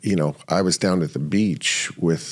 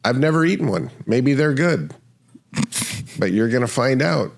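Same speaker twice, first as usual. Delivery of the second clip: dad's voice; 5 semitones higher than usual. Retold or imitated. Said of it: "he goes".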